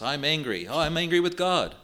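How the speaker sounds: mock a complacent modern believer, pitch rising on the second "angry"; hammed-up self-pitying "Oh, I'm angry with God"; lightly mocking a fashionable complaint; mocking whine. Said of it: "as if that's all right".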